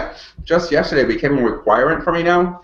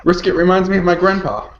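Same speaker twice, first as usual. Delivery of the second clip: laughing; 6 semitones higher than usual. Real, not acted. Laughing while reading the question.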